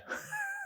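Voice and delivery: quiet little laugh; light chuckle. Real, not acted. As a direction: chuckle softly to yourself. Recalls the boss's troubles.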